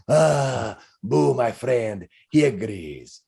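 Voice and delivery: slow, fond character voice; jolly hamster owner. Acted. Balding man answers for his hamster, fond. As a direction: speak tenderly for the pet, in character. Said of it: "And he says".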